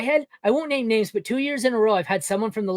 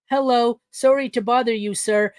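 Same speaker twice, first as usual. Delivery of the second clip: timid begging; 3 semitones higher than usual. Retold or imitated. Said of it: "little poor boy Timmy here begging".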